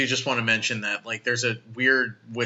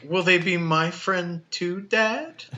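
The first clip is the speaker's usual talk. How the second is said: put-on high kid voice; 6 semitones higher, slower than usual. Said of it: "He's like".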